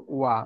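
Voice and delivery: ওয়া as one gliding "wa", falling; pronunciation demo. Shown as a demonstration. Teacher answers own question on the sound, pronunciation demo. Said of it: "ওয়া এর উচ্চারণ কি".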